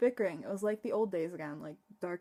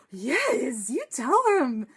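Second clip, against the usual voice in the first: loud, high cheer; 5 semitones higher, 12 dB louder, much slower than usual. Real, not acted. Fan cheering Belle on at the screen, loud and high. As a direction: cheer her on at the top of your voice. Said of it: "I was like".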